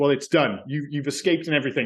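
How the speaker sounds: ordinary talk, nothing marked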